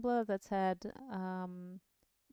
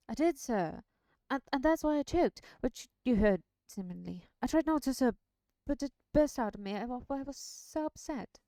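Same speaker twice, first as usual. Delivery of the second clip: flustered servant, rushed; choked-up rustic lad; upset Sam voice; 3 semitones higher, 6 dB louder than usual. Acted.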